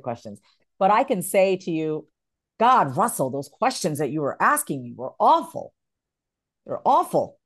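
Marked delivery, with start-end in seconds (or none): 2.6-7.4 blunt, cutting mock criticism; harsh feedback. Shown as a demonstration. Demo of harsh feedback to Russell, a mild cutting tone. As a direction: tear into his questions, half-acted. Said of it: "do you see the way I say that to you".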